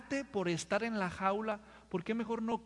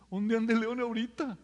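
nervous whisper. Pretend. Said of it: "yo lo que quiero decir".

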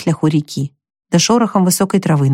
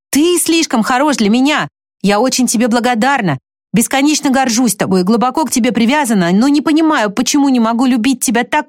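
put-on higher young woman's voice, earnest and distressed; Jo, pleading; 5 semitones higher than usual. Jo telling Laurie she cannot love him, higher and pleading.

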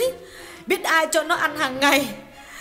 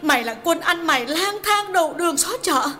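high-pitched female voice, loud and raging; wife's furious high-voiced rant; furious tirade; 3 dB louder than usual. A narrator's reading. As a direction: scream abuse at the husband's lover in a wife's high voice. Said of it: "những lời thịnh nộ chưa từng thấy".

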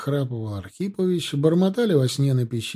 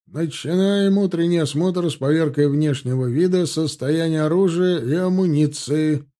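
a louder, pitched-up parade-ground bark; barked order; 4 semitones higher, 6 dB louder than usual. A narrator's reading. Lieutenant announcing inspection to the platoon, barking. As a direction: bark the order across the yard. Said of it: "гаркнул подпоручик".

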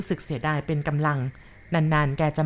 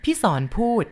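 ordinary delivery, nothing marked

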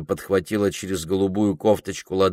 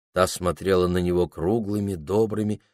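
ordinary delivery

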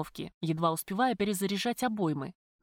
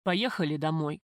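trembling voice; 4 semitones lower than usual. A narrator's reading. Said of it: "дрогнувшим голосом произнёс".

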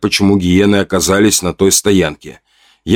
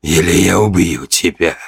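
seething rage; 2 semitones lower than usual. A narrator's reading. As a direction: let the fury drip from it. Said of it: "его слова сочились гневом, яростью".

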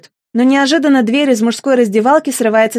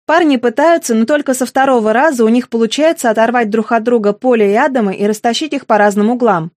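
ordinary delivery

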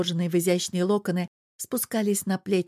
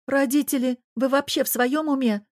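high, louder outraged protest; indignant cry at kissing parents; indignant daughter; 7 semitones higher, 3 dB louder than usual. A narrator's reading. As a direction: scold the parents in mock outrage. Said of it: "возмутилась Тереза".

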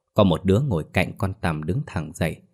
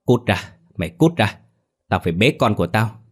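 cursing; 3 semitones higher than usual. Acted. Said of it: "rồi chửi".

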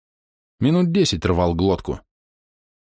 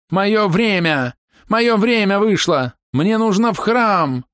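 high, slow desperate wail; 13 semitones higher, 3 dB louder, slower than usual. A narrator's reading. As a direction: wail it, near sobbing. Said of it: "вновь заголосил".

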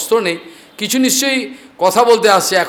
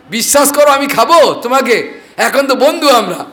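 sly coaxing cat; 6 semitones higher, 4 dB louder than usual. Acted.

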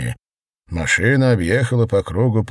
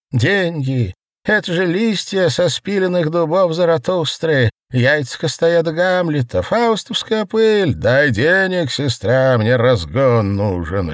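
barked; 8 semitones higher than usual. A narrator's reading. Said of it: "рявкнул Осип".

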